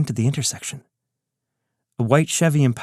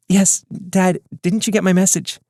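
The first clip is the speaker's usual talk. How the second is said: higher, guarded daughter voice; odd tone; 8 semitones higher than usual. Acted. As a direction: say it oddly, as if being overheard. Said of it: "she responded somewhat oddly".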